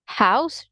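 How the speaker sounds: "house" with H, rising like a question; H pronounced. Shown as a demonstration. Teacher checks standard form, "house" with its H. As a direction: query "house" with the H sounded. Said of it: "You're not going to pronounce the H".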